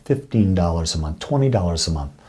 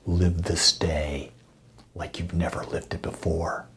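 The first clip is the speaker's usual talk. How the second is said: gentle blessing; 5 dB quieter than usual. Real, not acted. Minister blesses listeners after the affirmation, soft and unhurried. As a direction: settle each promise quietly on the listener.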